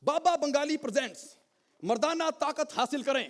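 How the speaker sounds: lightly put-on advert announcer; a hint of a commercial pitch; mock ad read. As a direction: present it like a product ad, in measured phrases. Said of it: "उसकी भी ऐड मैं ही करूंगा".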